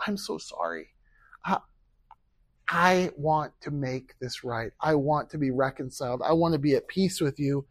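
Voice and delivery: measured plea for reconciliation; sincere apology. Acted. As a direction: apologise gently, taking time over it. Models apology to a brother.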